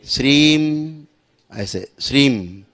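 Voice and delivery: slow "श्रीम" closing on म; ends on m. Shown as a demonstration. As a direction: shut the lips at the end of "श्रीम". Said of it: "बंद हो जाएगा मुंह". ("श्रीम" धीमे, अंत में मुंह बंद)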